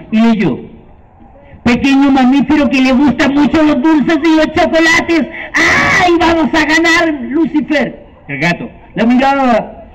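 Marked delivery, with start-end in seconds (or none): 1.6-8.1 witch. Acted. Witch reading and exulting.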